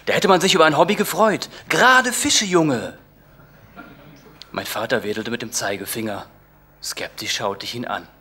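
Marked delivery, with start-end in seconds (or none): 0.0-3.0 lightly voiced scornful father; mock father. Father scoffing at his son, a hint of gruff dad. Father mocking son's hobby.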